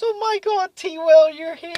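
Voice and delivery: high-pitched mock excitement; excited drunk greeting. Drunk friend greeting T Will in the garden, mock excited. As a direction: imitate an overexcited drunk friend. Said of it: "he was drunk".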